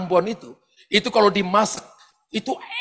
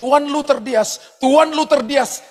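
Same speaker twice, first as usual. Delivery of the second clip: airport announcer; 4 semitones higher, slower than usual. Retold or imitated. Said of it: "nama orang dipanggil".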